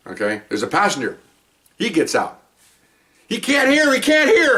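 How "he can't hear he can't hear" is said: much higher, urgent repeated cry; mother pleading with the cops, frantic yelling. Retold or imitated. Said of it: "mother's yelling".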